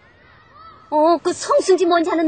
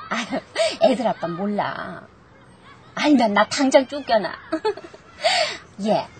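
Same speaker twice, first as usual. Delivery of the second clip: conspiratorial giggle, voice lowered; giggling secret; 3 semitones lower than usual. Acted. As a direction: giggle as if hiding it from her husband.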